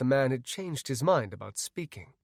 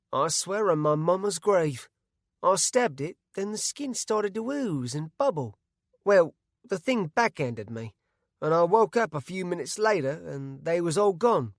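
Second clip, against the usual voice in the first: rustic Bart; 5 semitones higher, 3 dB louder than usual. A narrator's reading. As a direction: tell it haltingly and earnestly. Bart swears it true.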